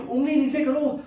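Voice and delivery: mimicked scolding girlfriend. Girlfriend cutting off his argument over a pointed finger, mock scolding. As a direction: interrupt with an imitated telling-off. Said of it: "तभी आवाज आएगी".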